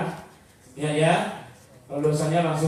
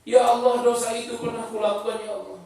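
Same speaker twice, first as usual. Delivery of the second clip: acted tearful remorse; 4 semitones higher than usual. A penitent recalls his past sin, tearful remorse. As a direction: cry out to God, then sink away. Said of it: "dia menangis".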